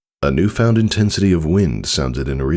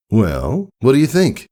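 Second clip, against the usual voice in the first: Tycho, higher and eager; proud stallion; 8 semitones higher than usual. Acted. Tycho asks Scootaloo her verdict, eagerly. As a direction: show off, waiting for praise.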